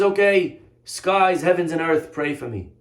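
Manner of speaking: mock desperate appeal; retold plea. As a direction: call out an imploring prayer. Retold plea to skies, after crying.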